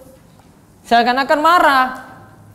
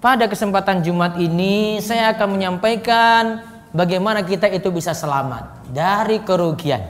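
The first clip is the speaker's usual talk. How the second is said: sermon opening; 4 semitones lower than usual. Shown as a demonstration. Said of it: "dia bisa sampaikan pentingnya isi".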